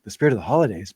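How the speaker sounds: a hint of eye-rolling sarcasm on "spirit"; mock solemn. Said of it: "and everyone's like".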